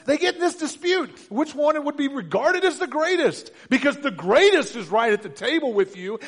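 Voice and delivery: high, loud, driving sermon voice; full-force preaching. Acted. Preacher to congregation about the disciples, full-force preaching. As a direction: preach it up with fire.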